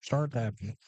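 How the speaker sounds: slow, lightly hammed-up Southern drawl; mock Southern accent. Co-host repeating the chat call, slow mock Southern accent. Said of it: "that's a good Southern".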